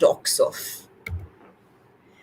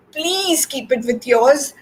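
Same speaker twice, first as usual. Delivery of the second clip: purring cat; 6 semitones higher than usual. A narrator's reading. Cat asks Turtle to take the egg, purring. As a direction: coax with a light purr. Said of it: "she purrs".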